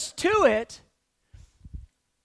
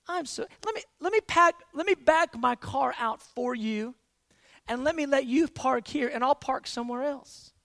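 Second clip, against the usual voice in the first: overly sweet apology. Acted. Preacher voices the overly kind driver.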